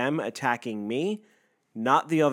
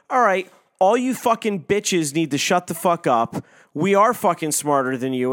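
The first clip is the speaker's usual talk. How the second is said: louder, forceful retort; fed-up outburst; 4 semitones higher, 5 dB louder than usual. Retold or imitated. Speaker re-enacting telling his accusers off, fed up and loud. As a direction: tell them all off, raised voice.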